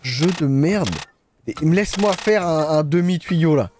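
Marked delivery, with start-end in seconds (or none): 0.0-0.9 very slow, low contempt; slow disgusted grumble. Real, not acted. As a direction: drag out the disgust. Frustrated gamer grumbling. (dégoûté, lent et grave)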